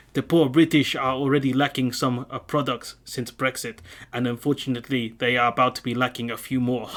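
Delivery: lightly put-on French accent, reading a quote; a hint of a French accent, savouring the villain line. Reading the fisherman's quote to viewers, mock French accent. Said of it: "I've gotta do a French accent".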